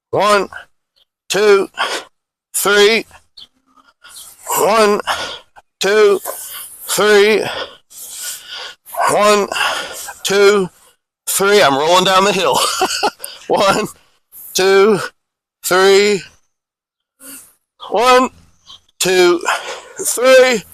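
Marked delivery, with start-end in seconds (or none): 0.1-11.6 evenly spaced exercise count, each number on its own; measured count with pauses between numbers; drill cadence count. Real, not acted. 13.5-20.6 evenly spaced exercise count, each number on its own; measured count with pauses between numbers; drill cadence count. Real, not acted.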